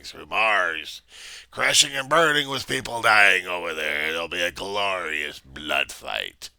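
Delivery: slow, loud gloating; megalomaniac villain. Acted. Villain gloating at the Reverend about destruction, slow loud. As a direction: gloat over the coming destruction.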